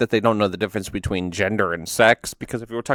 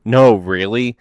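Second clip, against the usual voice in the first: sarcastic; 4 dB louder, slower than usual. Retold or imitated. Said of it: "Me, sarcastically".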